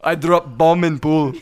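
slow mock Russian accent; joking in a thick-tongued Russian accent. Joking as the pool bomber, Russian accent. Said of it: "It turned Russian".

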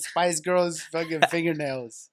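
slow, laughing it out; mocking a friend's glitter nails through laughter; chuckling, drawn out; laughing through words. Laughing while quoting himself.

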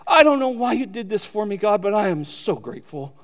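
retold prayer, mildly moved, sinking at the end; emotional. Preacher retelling his own prayer to God, mildly emotional. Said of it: "I'm getting emotional".

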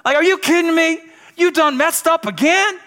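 high, loud mock scolding; hammed-up exasperated yell, as if telling off a repeat offender; yelling and fussing. Preacher mimics a God who yells at you for messing up, mock-angry yelling. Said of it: "yelling and fussing at you saying".

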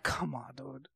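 eye-rolling mutter. Retold or imitated. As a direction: mutter it like you're rolling your eyes. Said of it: "I'm rolling my eyes and I'm like".

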